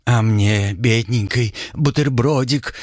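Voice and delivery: put-on whiny, drawn-out little girl plea; little princess. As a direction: pout and drag out the words like a spoiled girl. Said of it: "капризно протянула Флосси".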